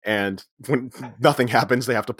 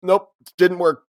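strained panic; 6 semitones higher, 4 dB louder than usual. Retold or imitated. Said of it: "he's like".

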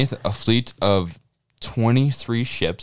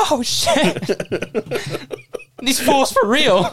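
high mock voice; slower than usual. Laughing mock outsider comment.

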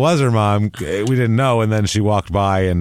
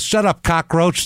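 higher, drawn-out mock insult; mock attacking; 7 semitones higher than usual. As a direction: imitate a slow, pitched-up put-down. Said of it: "starts really attacking these friends".

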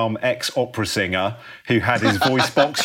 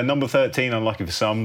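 light bingo caller call. Acted. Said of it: "I've turned into a bingo caller accidentally".

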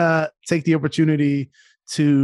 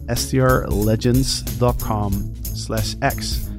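slow spelled-out URL; 3 semitones lower, slower than usual. Acted. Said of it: "That is S T R legends".

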